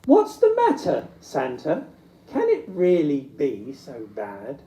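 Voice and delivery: asking Santa what's wrong, worried; voiced character. Character asks sad Santa.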